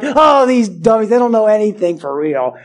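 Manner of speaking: mocking the leaders' scorn for their people, sneering; contemptuous leaders. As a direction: look down your nose at the crowd. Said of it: "Now you see the contempt".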